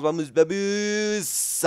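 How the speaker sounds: slow, high drawn-out urging; stretched cheer. Real, not acted. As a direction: drag it out, hoping hard. (ánimo alargado y agudo)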